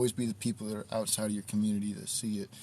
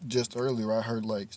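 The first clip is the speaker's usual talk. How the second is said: talking through hiccups; words broken by hiccups; 4 dB louder than usual. Real, not acted. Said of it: "Excuse me, I got the hiccups".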